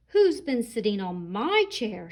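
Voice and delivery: lightly voiced mama bear; firm middle voice of a mother; medium mama rhino. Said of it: "shouted Mama Rhino in her medium-sized voice".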